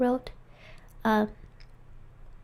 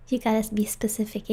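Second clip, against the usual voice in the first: whispering. Real, not acted. Whispering ASMR stream.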